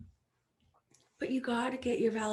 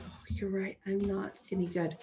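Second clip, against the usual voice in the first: deflated agreement; 3 semitones lower, 5 dB quieter than usual. Retold or imitated. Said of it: "I'm like".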